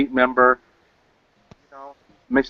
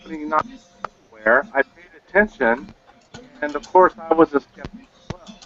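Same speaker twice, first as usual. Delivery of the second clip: glitchy robotic call; 3 semitones higher than usual. Real, not acted. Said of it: "Your audio is breaking really, really bad".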